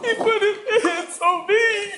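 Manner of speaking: sobbing words, very high-pitched and loud crying. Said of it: "You got him crying".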